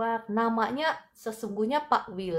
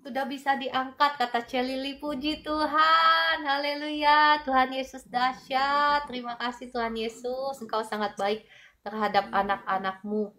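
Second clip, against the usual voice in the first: joyful praise; 5 semitones higher than usual. Real, not acted. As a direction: burst out in thankful praise. Praise after another healing. (pujian penuh sukacita dengan suara tinggi)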